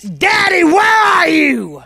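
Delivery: put-on high, slowed child's call; lightly voiced child's cry. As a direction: call for daddy like a lost kid. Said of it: "In some cases, it's".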